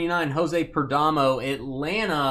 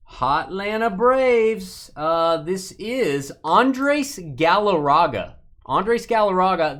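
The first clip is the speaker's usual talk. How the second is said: announcer hype; 5 semitones higher, 5 dB louder, slower than usual. Pretend. Hyping a card like an announcer.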